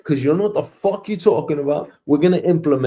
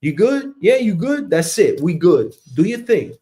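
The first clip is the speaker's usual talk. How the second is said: higher, airy, casual manager voice; breezy check-in; 5 semitones higher than usual. Retold or imitated. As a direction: toss it off like you barely care. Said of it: "I'm like".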